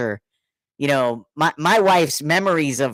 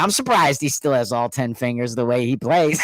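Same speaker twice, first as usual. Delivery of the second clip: laughing quote; 4 semitones lower than usual. Retold or imitated. Friend's joke, laughing through.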